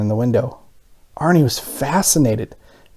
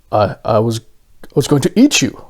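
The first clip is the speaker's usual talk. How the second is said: shocked stammer; 2 semitones lower than usual. Acted. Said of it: "he replied in shock".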